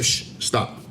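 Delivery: a soft, voiceless shush, then stop; mock shushing. Silencing the other person whenever they try to talk, in a soft shush. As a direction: hush someone as if silencing them mid-sentence. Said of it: "I tell".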